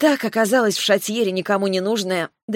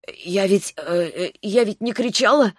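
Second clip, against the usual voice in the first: hoarse croak. Acted. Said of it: "прохрипела я".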